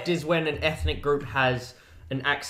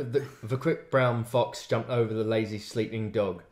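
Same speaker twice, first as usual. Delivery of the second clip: Australian accent; 4 semitones lower, 4 dB quieter than usual. Shown as a demonstration. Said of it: "is that your Australian accent".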